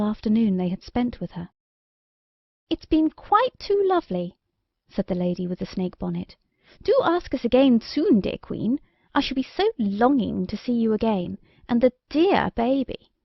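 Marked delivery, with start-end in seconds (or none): 2.7-13.1 gushing fairy. Acted. Bonnet fairy gushing insincere thanks to the queen. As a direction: overdo the sweetness of the farewell.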